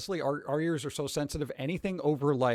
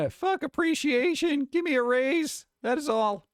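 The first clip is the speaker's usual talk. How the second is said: higher, louder laughing demand; mock demand; 12 semitones higher, 4 dB louder than usual. Streamer reads a teacher's post to chat, loud laughing demand. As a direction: demand the raise, half joking. Reading teacher's rant aloud.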